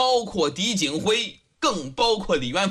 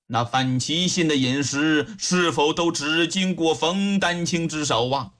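lower-pitched official questioning; judge inquiring; 4 semitones lower than usual. Acted. Judge asks who handled the victim's food, calmly probing. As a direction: probe calmly in an older man's register.

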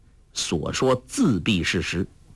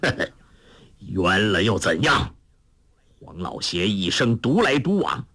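cold sneer. Acted. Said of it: "黄药师冷笑道".

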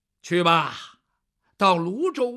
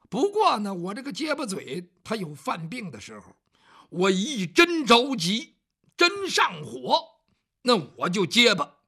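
servant explaining himself, growing louder and anxious; flustered servant; 4 dB louder than usual. Acted. Bao Xing explaining his stutter to the young master, flustered and increasingly louder. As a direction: get more worked up as you explain, ending in a nervous laugh.

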